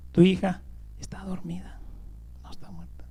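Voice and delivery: whispered, tender reassurance to a grieving father; quiet whisper of consolation; hushed comfort. Acted. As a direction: speak it softly as if not to wake her. Jesus softly comforting the father.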